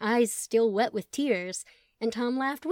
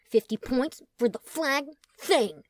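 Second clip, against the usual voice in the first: slow bro voice; 5 semitones higher, 4 dB louder, slower than usual. Acted.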